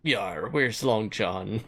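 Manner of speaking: slow, low, lightly growled pirate; a hint of an old pirate. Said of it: "It sounds like a pirate insult".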